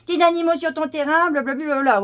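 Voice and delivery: high, loud whiny mockery; whiny killjoy. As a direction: mimic the nagging killjoys. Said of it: "les rabat-joie".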